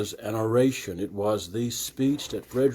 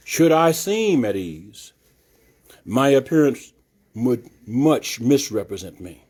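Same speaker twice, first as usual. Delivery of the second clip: oratorical reading. Shown as a demonstration. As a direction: proclaim it to the hall like Frederick Douglass. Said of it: "I'm trying to do it with the inflection of the speaker".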